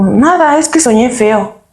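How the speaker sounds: put-on small, high child's answer; girl tells her uncle nothing's wrong, high and small; her child self. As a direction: answer like a little girl brushing it off. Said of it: "Y yo".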